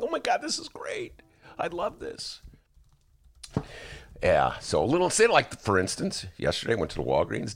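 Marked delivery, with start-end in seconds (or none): 0.0-2.4 high, breathless whisper of delight; excited whisper. Retold or imitated. Hooked viewer whispering to himself, thrilled. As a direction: hush it like you can't believe your luck.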